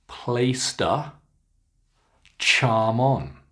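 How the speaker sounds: "charm on" run together as char-mon; linked words. Shown as a demonstration. Teacher shows connections, "charm on" linked. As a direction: join "Placed a", then "charm on". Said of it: "some more connections here".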